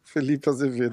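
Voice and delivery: name read through a giggle; holding back a laugh while reading; stifled giggles. Real, not acted. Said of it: "Para de rir".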